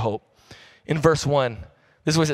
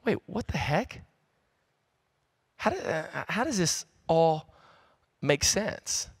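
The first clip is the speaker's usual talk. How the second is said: hushed confusion; 2 semitones higher, 6 dB quieter, slower than usual. Retold or imitated. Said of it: "We start going".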